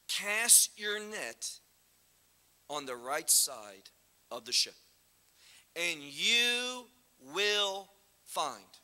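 slow, drawn-out command; solemn command. Retold or imitated. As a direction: spell out each word like a prophecy. Yeshua's command quoted slowly.

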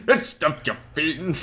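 high mock nineteen-fifties English accent; old-era accent. Gamer answering what era that was, high mock fifties accent. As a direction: cry it out in a hammed-up old-time accent. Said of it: "What era was that from?".

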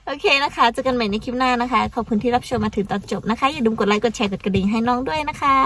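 quick, run-on video outro; fast talking. Real, not acted. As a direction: rattle off the sign-off. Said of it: "พูดเร็วจังเลย".

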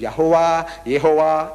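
Yahweh, then Yehovah, with the vowels sounded out; vowels added to consonants. Shown as a demonstration. Lecturer shows the crowd how added vowels sound, pronouncing deliberately.

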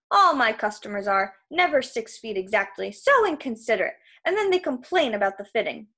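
mildly put-upon salesman patter; lightly voiced salesman, complaining. Krusty complaining about customers, lightly aggrieved salesman. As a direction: air a petty trade grievance.

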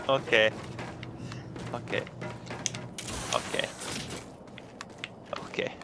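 very faint, spaced-out okays; dazed, going loopy. Real, not acted. Player reacting to a friend's crude threats, faint and dazed. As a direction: repeat it softly, drifting further away each time. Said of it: "You sound like you're going a bit loopy".

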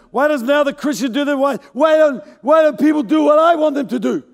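lightly voiced aggrieved grumbling at God; whiny complaint.

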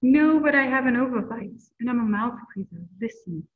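lively storybook read-aloud voice; reading to children. A narrator's reading. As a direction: read it like story time for kids. Reading a picture book aloud.

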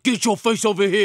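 put-on high baby-talk voice. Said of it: "Do you know the baby voice?".

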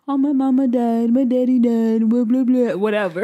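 scornful mock recital of someone's troubles; annoyed, disgusted. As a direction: mimic whining complaints with open disgust. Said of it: "said it with such annoyance and disgust".

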